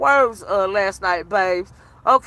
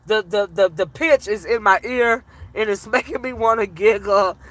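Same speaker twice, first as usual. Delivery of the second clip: lower, fighting down a giggle; holding back laughter; 5 semitones lower than usual. Real, not acted. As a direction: try not to laugh as you talk. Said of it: "I'm trying not to laugh".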